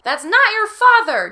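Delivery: high, loud, slow cry. Acted. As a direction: shout a warning across the room. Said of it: "cried again".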